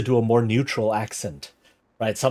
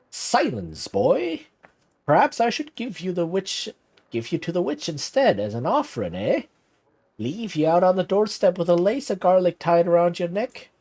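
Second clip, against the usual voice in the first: put-on old man snapping at the boy, higher pitch; mock stern rebuke; 6 semitones higher than usual. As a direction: scold him like a cranky grandfather. Old man snaps at boy, threatening.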